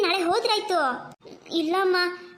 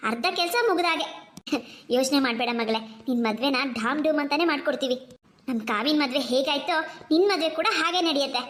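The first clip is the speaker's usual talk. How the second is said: mother. Acted. Mother calming her two daughters, gently. Mother planning wedding shopping.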